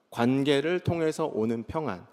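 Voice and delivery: quiet recap. Shown as a demonstration. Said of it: "이렇게 얘기할 수 있는 거예요".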